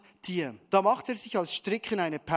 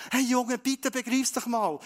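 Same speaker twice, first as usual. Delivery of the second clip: pleading plea; 5 semitones higher than usual. Acted. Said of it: "vielleicht genau mit so einer Stimme".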